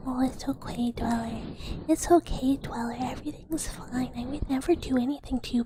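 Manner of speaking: whispered cooing reassurance, play-acted; playfully tender ASMR whisper; mock soothing. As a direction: coax and comfort in a pretend hush. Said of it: "you just do the back and forth".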